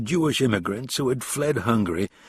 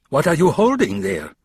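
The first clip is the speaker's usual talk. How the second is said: concerned; 7 semitones higher, 6 dB louder than usual. A narrator's reading. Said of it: "uncharacteristic concern creeping into his voice".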